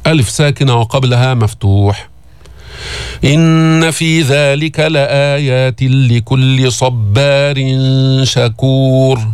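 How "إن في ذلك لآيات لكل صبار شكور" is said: slow, drawn-out tajweed chant; Quran recitation. Shown as a demonstration. Teacher reciting to students in slow chant. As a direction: recite each word long and measured.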